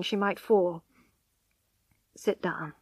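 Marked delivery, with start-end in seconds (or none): 2.1-2.7 gently. Acted. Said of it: "he said gently".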